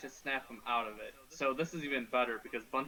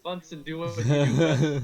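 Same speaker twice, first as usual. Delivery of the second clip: loud, commanding call; 12 dB louder than usual. Acted. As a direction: shout the order across. Calling out to companion in game.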